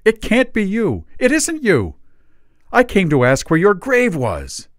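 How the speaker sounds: high and loud, staggered disbelief; astonished Dickens. A narrator's reading. Dickens cries out at Father Christmas, loud disbelief. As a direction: throw out the shock.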